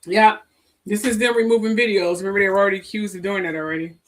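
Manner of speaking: talking between sips of coffee; words around noisy coffee slurps; slurping coffee. Real, not acted. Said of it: "I'm drinking coffee. Sorry for me slurping".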